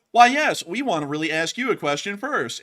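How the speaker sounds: sweet on top, threat underneath; menacing fighters. Retold or imitated. Hezbollah fighters answering the journalist, mock-polite menace. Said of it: "They're gonna go".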